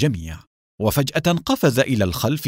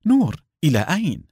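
higher-pitched anxious call after someone; mild raised-pitch cry; 5 semitones higher, faster than usual. A narrator's reading. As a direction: call out the name, then a quick question. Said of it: "صاحت سلوى".

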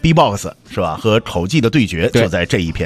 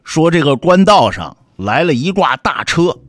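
lightly voiced storyteller, raised pitch; imitating a storyteller's delivery; 单田芳 impression; 5 semitones higher than usual. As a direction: narrate like a traditional storyteller setting a scene. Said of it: "你看我学的像不像啊".

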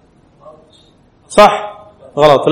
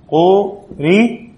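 قري stretched out very slowly, a little higher; very slow demo; 5 semitones higher, much slower than usual. Shown as a demonstration. Teacher showing students how the word ends, very slow. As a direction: drag out قري syllable by syllable. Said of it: "شوفوا كيف؟".

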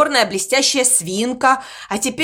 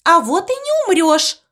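retorting; 6 semitones higher than usual. Acted. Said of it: "возразила морковка".

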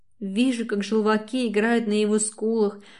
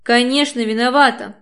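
full-on yell; 3 semitones higher, 7 dB louder than usual. A narrator's reading. Katya screams at him in the quarrel, full shout. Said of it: "Орёт на полную катушку".

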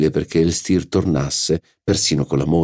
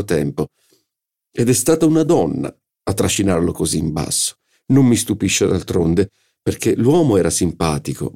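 a hint of a haughty hostess, higher, gossiping with disdain; lightly voiced Madame Verdurin; 4 semitones higher than usual. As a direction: play the salon hostess sneering at a former protégé.

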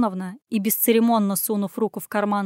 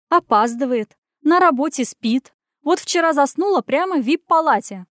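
higher, louder indignant complaint; indignant gabbling, higher and louder; indignant rattling; 5 semitones higher, 4 dB louder than usual. A narrator's reading. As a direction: rattle off her faults to the boss. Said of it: "возмущённо тараторила та".

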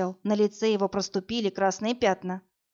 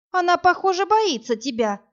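exclaiming; 8 semitones higher, 4 dB louder than usual. A narrator's reading. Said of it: "воскликнула я".

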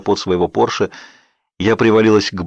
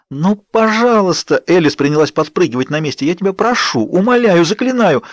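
pleading; 7 semitones higher than usual. A narrator's reading. Alice pleading, bouncing excitedly.

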